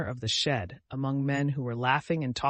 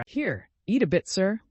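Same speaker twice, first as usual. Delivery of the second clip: mildly deferential offer, pitched higher; respectful tone; 6 semitones higher, 4 dB louder than usual. A narrator's reading. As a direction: offer it politely, as to a superior. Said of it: "resuming his former respectful tone".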